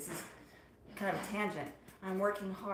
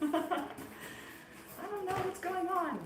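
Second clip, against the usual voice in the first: laughing; 10 semitones higher, much slower than usual. Real, not acted. Laughing at herself being spicy.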